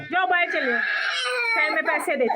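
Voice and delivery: firm shout. Real, not acted. Sending the fussing child out.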